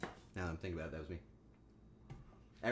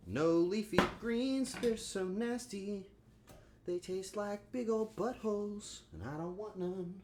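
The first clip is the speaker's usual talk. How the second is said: slow, higher whiny put-on voice; mock picky kid; 6 semitones higher than usual. Mimicking a picky eater to chat, slow and whiny. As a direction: pout it out like a fussy child refusing greens.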